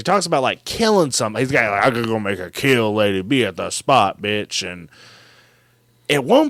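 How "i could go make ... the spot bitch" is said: Silky. Retold or imitated. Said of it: "some guy using a voice modulator named Silky".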